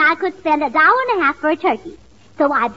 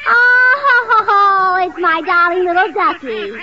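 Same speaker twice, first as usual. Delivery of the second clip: cooing; 2 semitones higher, 4 dB louder, much slower than usual. Acted. Gracie coos to pet duck.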